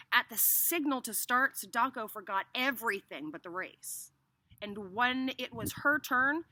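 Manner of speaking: emphatic storytelling with stretched key words; expressive narrator; story read aloud. A narrator's reading. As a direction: read a race scene to children. Reads story to children.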